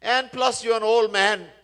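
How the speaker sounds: high, pressed jibe; taunting. Retold or imitated. King to palanquin bearer Bharat, taunting. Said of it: "he taunted him in all kinds of ways".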